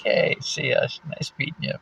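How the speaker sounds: high-pitched mock farewell; retold breezy goodbye. Acting out her breezy goodbye.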